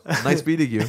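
laughing, lightly imitating a polite drunk; polite drunk woman voice. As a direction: say it sweetly while giggling. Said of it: "She was still polite, though".

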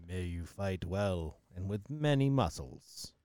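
slow, grand judge voice. Acted. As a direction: pronounce it like a solemn judge. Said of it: "Back to Judge Voice".

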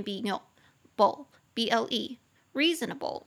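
slow, letter by letter; spelling out syllables. Shown as a demonstration. Teacher finishing the spelling of reasonable, slow. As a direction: keep spelling slowly for the class. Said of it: "四个音节".

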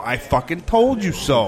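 triumphant gloating. Acted. Husband turning to his wife after a find, gloating. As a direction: crow it slowly, rubbing it in.

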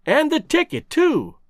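sudden high eager outburst; excited cry. A narrator's reading. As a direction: blurt it out as it dawns on you. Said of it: "I cried".

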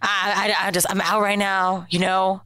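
lightly voiced creepy caller; creepy voicemail caller. Man propositioning coworker by voicemail, mildly creepy. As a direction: subtle impression of a creepy come-on. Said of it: "I'm gonna try to do my best".

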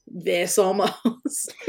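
lost-voice rasp; like a heavy smoker; raspy voice. Shown as a demonstration. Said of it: "my voice sounded like".

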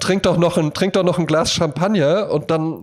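hammed-up commanding lover; mock bossy woman. Woman ordering her toy boy around, mock bossy.

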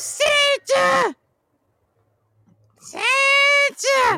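high shouted call; high excited call; calling Santa. Acted. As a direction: yell across to Santa. Rudy calls out to Santa.

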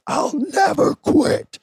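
high, slow, loud wrestling promo scream; screamed promo line. Retold or imitated. Wrestler screaming his promo to the crowd, loud and drawn out. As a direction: belt it out like a defiant promo. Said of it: "Do you remember when you screamed".

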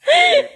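high squealing burst of laughter; shrieking laugh. Real, not acted. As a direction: explode into a shrill laugh. (carcajada aguda)

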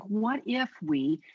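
ordinary talk

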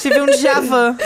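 laughing through the words. Real, not acted. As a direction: say it while cracking up. Repeats line while laughing.

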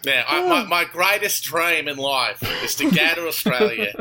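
put-on broad comic Aussie accent; Australian accent. Guest shares his greatest dream, in put-on Australian accent. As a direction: ham up the Australian vowels. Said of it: "just talk in my Australian accent".

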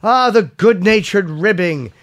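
measured sponsor read. Real, not acted. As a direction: sell it playfully, punching key phrases. Reads sponsor copy.

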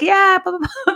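high-pitched mock blah-blah; mock texting chatter. Retelling a guy's French text messages, high mock chatter.

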